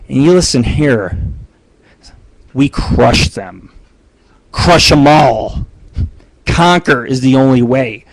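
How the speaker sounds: low, slow barbarian war boast. Acted. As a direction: growl it like a warlord.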